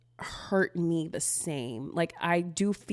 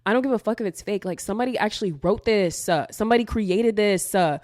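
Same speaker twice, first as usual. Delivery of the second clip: heated retort; 3 semitones higher, 5 dB louder than usual. Retold or imitated. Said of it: "And I'm like".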